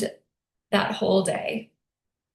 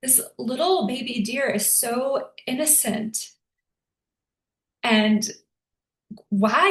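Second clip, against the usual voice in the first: higher, anguished plea to the universe; mild retold anguish, higher pitch; devastated lament; 3 semitones higher than usual. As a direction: cry out why, grieving. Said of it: "devastated I was".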